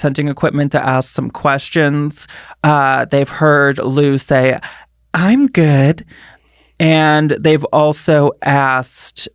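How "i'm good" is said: airy spirit-box ghost voice; a flat little ghostly "I'm good". Retold or imitated. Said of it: "What does the voice sound like?".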